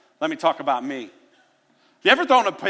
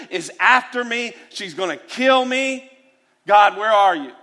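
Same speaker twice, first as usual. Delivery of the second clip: frustrated Elijah; 4 semitones higher than usual. Acted. Elijah's frustrated prayer acted out.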